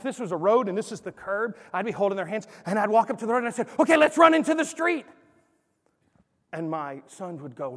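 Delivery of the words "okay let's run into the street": mock invitation. Dad testing son at curb.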